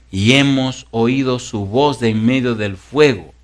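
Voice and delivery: slow, measured Bible reading; stately, drawn-out reading from the pulpit; solemn scripture reading. Acted. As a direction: proclaim each phrase with deliberate pauses. Reads the scripture passage aloud.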